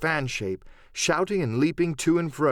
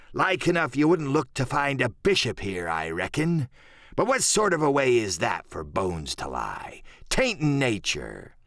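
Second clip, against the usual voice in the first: Silver. Acted.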